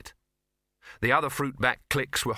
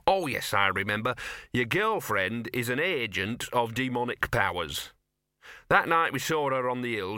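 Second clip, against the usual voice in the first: lightly voiced dog with gossip to share; talking dog, smugly confiding. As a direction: confide it like a self-satisfied little dog.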